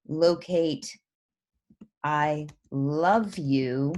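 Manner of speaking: slow, run together as a full sentence; read as one sentence. Shown as a demonstration. Teacher shows students the unbroken line, slowly read. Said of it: "if it just read".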